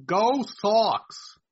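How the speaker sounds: attempted Beantown accent, drawn-out vowels; a fan's Boston-accented cheer. Shown as a demonstration. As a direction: put on your best Boston accent. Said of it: "my best, uh, accent, uh, from Beantown".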